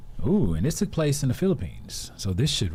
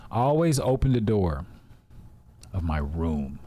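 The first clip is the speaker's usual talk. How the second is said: adjusted storytelling voice; 3 semitones lower than usual. Shown as a demonstration. Reader trying a better voice for the co-host, adjusted storytelling voice. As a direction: pause midway, then sink lower to finish. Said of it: "Is that better?".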